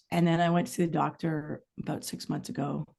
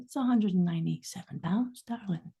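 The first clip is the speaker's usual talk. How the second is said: lightly imitated Australian lilt, trailing off softer; Australian accent; 3 dB quieter than usual. Australian nurse breaking the weight to a patient, imitated Australian accent. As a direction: mimic an Australian woman's lovely accent. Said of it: "with her lovely accent".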